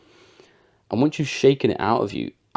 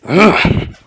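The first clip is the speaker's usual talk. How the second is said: shaking noise; 11 semitones higher, 12 dB louder than usual. Shown as a demonstration. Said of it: "like that".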